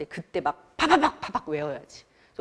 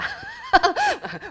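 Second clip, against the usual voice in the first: high burst of laughter. Real, not acted. Teacher laughing at the story.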